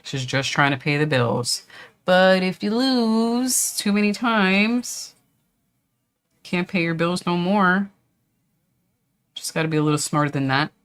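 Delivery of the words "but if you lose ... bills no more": high slow mock voice. Mock warning about paying bills.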